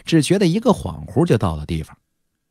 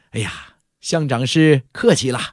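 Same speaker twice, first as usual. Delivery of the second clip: polite reply with a smile; smiling reply. Acted. Guest answering the manager's welcome, smiling and courteous. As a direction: wave off the host's courtesy genially. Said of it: "张凡微笑着回答".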